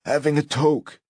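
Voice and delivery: talking while holding a breath in; tight, held-breath voice after a drag; holding in smoke. A narrator's reading. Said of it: "he said, sucking in his breath".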